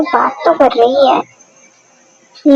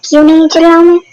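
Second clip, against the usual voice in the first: mildly raised, defiant retort; defiant yelling; 3 semitones higher, 4 dB louder, faster than usual. Acted. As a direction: throw it back with a slightly raised voice. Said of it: "चिल्लाना जरूरी नहीं होता है". (थोड़ी ऊँची आवाज़ में तीखा जवाब)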